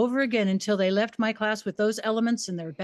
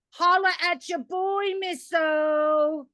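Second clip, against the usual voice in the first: higher, slangy schoolboy greeting; cocky student; 6 semitones higher, much slower than usual. Retold or imitated. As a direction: play it cool. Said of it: "Braxton B".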